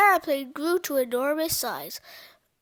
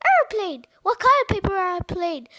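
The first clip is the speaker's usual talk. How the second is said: higher, louder alarmed question; flustered storybook query; frantic questioning; 5 semitones higher, 8 dB louder than usual. A narrator's reading. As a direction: ask urgently with raised voice. Frantic question during fall.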